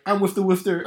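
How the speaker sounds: high-pitched Belfast mum's declaration; strong Belfast accent. Retold or imitated. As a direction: declare it proudly in comic Belfast. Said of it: "I put on a strong Belfast there".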